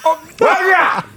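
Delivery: high-pitched mock shout; hammed-up paternal outrage; outraged father. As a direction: bellow as a dad catching his daughter. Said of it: "내가 딸 아버지인데".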